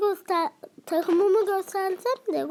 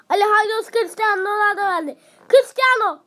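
excited commentator; 4 semitones higher, 5 dB louder than usual. Real, not acted. Excited attack in game.

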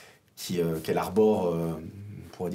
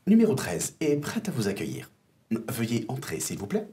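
lightly voiced metallic robot; a hint of a metallic robot; 3 semitones higher than usual. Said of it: "d'une voix métallique".

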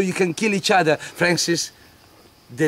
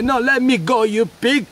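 woman pleading; 6 semitones higher than usual. Acted. Woman resisting soldier.

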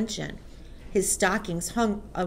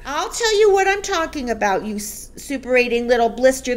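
loud, raised-pitch furious retort; angry shout; 4 semitones higher, 6 dB louder than usual. A narrator's reading. Headmistress rounds on the accused boy, shouting. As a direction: shout the insult at the culprit. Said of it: "the Trunchbull shouted".

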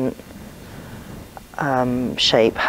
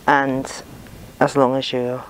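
breathing heavily while working; audible breaths between words; heavy breathing. Real, not acted. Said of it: "Sorry about my breathing".

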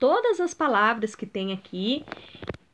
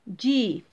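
"Difícil" in separated syllables, weight on "fí"; penultimate stress. Shown as a demonstration. Teacher looking for a penultimate example, stressing "fí" in "Difícil". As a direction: split "Difícil", leaning on the middle "fí". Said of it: "Essa é a penúltima".

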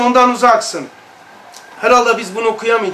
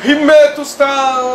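loud, slow call for Himmet usta, higher pitched; retold call to Himmet; 6 semitones higher, 6 dB louder, slower than usual. Recalling how he shouted to master Himmet, slow loud call. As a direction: call out across the room, drawn out. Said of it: "bir bağırdım".

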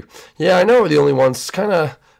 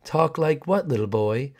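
slow it down like a sinister neighbor; creepy neighbor drawl; 4 dB quieter than usual. Acted. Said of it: "why do you talk like that".

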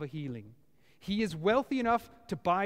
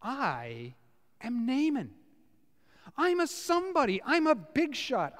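high, loud, self-important outburst; proud general ranting, higher and louder; furious Naaman; 3 semitones higher, 3 dB louder than usual. Retold or imitated. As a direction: puff up like an offended big shot. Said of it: "He's furious".

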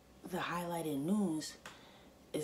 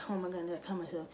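acting out being in pain, slightly higher; mock agonized crying; 4 semitones higher, faster than usual. Shown as a demonstration. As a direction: pretend you are hurt and near tears. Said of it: "I'm in agonizing pain. I could be crying".

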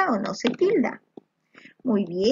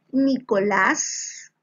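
Nicolás drawn out slowly, leaning on the final "lás"; stress on last syllable; much slower than usual. Shown as a demonstration. Teacher shows students where the tonic syllable falls, last syllable stressed. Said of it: "la sílaba tónica recae en la última sílaba".

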